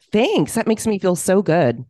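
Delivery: mock gratitude with a high-pitched "thanks"; sarcastic thanks. Podcaster answering "you look tired", sarcastically. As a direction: overdo the gratitude, not meaning it.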